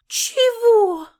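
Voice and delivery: put-on girl stunned that he sides against her. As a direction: caught completely off guard. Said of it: "опешила я".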